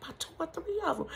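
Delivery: quick, soft, through a laugh; laughing reply. Retold or imitated. Daughter telling mom how many bags, laughing. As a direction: giggle the answer out fast.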